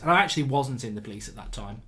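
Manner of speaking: normal talking voice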